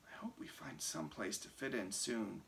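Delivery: soft unvoiced whisper. A narrator's reading. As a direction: breathe it in a hush. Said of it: "it wasn't very whispering of Sam".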